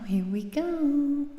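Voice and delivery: slow, loud hype-up call; loud and drawn out. Real, not acted. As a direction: stretch it out loud to hype the start. Singer psyching up before song.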